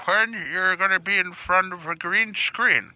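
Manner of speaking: put-on old man voice. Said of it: "Stop talking like an old man".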